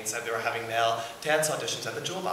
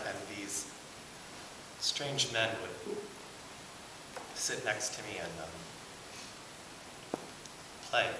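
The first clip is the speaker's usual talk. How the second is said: halting confession; 8 dB quieter than usual. Acted. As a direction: confess it haltingly, voice sinking away. Halting confession of childhood abuse.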